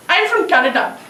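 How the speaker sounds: acted Indian accent. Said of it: "you sound like you're from somewhere".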